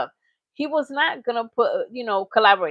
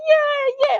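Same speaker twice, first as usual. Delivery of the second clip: imitating excited Tyler; 14 semitones higher than usual. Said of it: "He's like".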